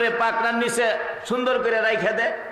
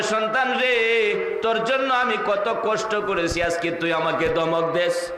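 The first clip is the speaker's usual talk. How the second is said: a tearful mother's lament; 3 semitones lower than usual. Retold or imitated. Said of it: "চোখের পানিগুলো ছেড়ে দিয়ে কান্দে আর বলে".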